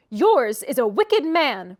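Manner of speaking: loud, slow retort; angry retort. A narrator's reading. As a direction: fling it back at him. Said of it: "retorted Catherine".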